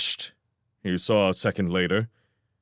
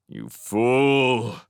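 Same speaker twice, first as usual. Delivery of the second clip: disgusted groan. A narrator's reading. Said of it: "he groaned disgustedly".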